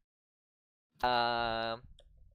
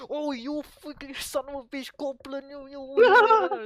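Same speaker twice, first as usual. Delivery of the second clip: high-pitched mock tirade, swelling louder; imitated angry cursing, pitched way up; bashing someone; 12 semitones higher, 9 dB louder than usual. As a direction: lay into him, acting it out. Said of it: "he bashes the hell out".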